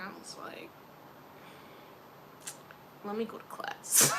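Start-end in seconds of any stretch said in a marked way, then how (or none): 3.0-4.1 understated, about to break into laughter; amused retreat. Retold or imitated. Retold escape, first take before laughing.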